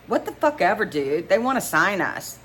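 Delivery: high, loud dismissive whoop; excited. A narrator's reading. Bandmate waves off the name fix, excited. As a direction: wave off the correction, too thrilled to care. Bandmate brushes off correction, thrilled.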